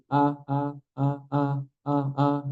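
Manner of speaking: sustained a with the jaw a fingernail open. Shown as a demonstration. Tajwid teacher demonstrating the open-jaw a. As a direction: demo the a, teeth a fingertip apart. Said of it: "jari kita masuk gini".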